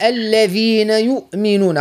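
clearly articulated "الذين يؤمنون", model for the learner; teacher modeling "الذين يؤمنون" plainly; correct reading. Shown as a demonstration. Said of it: "قل". (نطق "الذين يؤمنون" بوضوح للتعليم)

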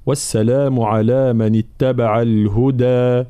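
slow, measured tajweed recitation; Quran recitation. Shown as a demonstration. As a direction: recite evenly with held long vowels. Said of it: "في قوله تعالى".

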